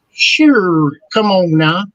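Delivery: put-on Mississippi accent. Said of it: "a Mississippi accent".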